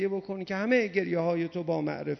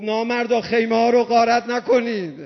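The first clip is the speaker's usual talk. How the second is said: louder mock cry at the looters; retold shout; 3 semitones higher, 6 dB louder than usual. Preacher voicing Omar Saad shouting at the looters, louder. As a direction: call out at the looters. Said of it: "گفت".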